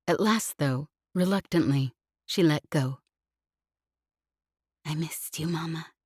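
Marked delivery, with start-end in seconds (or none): 4.8-5.9 put-on soft, near-whispered child voice. A narrator's reading. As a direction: whisper it softly, like a small girl. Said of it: "she whispered".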